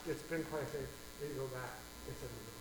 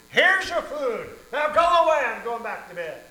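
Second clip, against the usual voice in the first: grumpy handover; 9 semitones higher, 15 dB louder than usual. Acted. Annoyed neighbor handing over food at night, loud. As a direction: shove the food at him and grumble. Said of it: "And he says".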